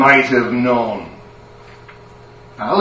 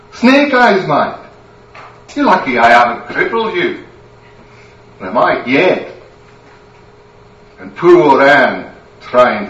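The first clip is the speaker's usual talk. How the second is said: angry Scottish wife. Acted. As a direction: tear into him. Wife berates the lummox.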